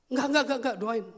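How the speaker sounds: high, loud repeated no; firm refusal. Acted. Pastor refusing the repeated plea, loud refusal. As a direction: cut him off with a loud refusal.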